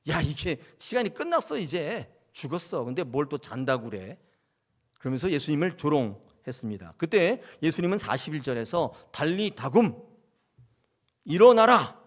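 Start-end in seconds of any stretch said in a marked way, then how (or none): 0.1-4.2 scornful crowd, sneering at the idea; mocking jeer. Mourners ridiculing Jesus, scornful jeer. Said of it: "조롱해요". 9.1-12.0 loud, high call to rise; commanding shout. Acted. Jesus calling the dead girl to rise, commanding shout. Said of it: "이 딱 외치세요".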